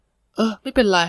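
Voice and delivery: high mock-resigned giving in; indulgent sigh. Older coworker giving in to the junior's trick, mock resigned. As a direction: let it go fondly.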